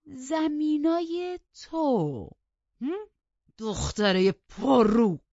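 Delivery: high, drawn-out incredulous roar; outraged shout. A narrator's reading. Heathcliff outraged by the insolent girl's claim to land, outraged shout. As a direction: throw it back loudly, stretching the words.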